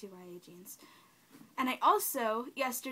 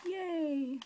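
higher-pitched little cheer; excited cheer; 4 semitones higher than usual. Real, not acted. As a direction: give a delighted little cheer. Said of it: "I'm just really excited".

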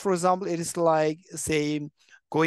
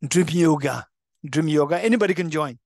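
mock ad slogan; 3 semitones lower, 3 dB louder than usual. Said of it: "say, the advertisement".

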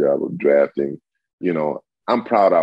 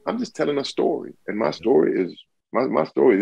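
high mock retort; 9 semitones higher than usual. Retelling his reply to letter.

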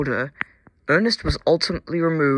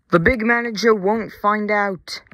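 higher-pitched, loud indignant yell; raised voice, pushed high; 6 semitones higher, 5 dB louder than usual. A narrator's reading. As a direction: yell it back in exasperation. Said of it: "yelled his driver".

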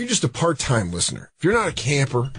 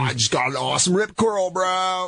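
surfer voice; 5 semitones higher than usual. Retold or imitated. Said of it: "A surfer voice".

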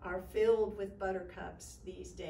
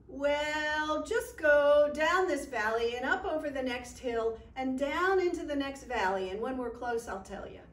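leprechaun; 3 semitones higher, 7 dB louder than usual. Acted. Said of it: "said the leprechaun".

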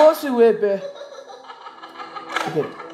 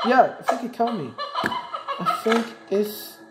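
laughing; 4 dB quieter than usual. Real, not acted. Caught again, laughing.

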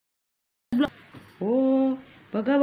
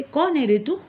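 dismissive; 4 semitones higher, 3 dB louder than usual. Pretend. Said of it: "दिसलं तर म्हणते".

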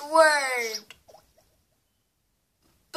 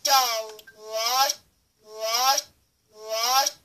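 garbled backwards playback; reversed audio; 5 semitones lower, 4 dB louder, much slower than usual. Shown as a demonstration. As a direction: sound played in reverse.

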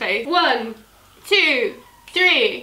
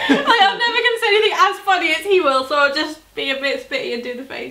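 Drew Monson impression; faster than usual. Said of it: "Drew Monson".

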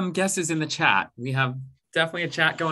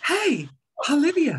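breathy aspirate onset; 8 semitones higher than usual. Shown as a demonstration. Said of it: "Our aspirate".

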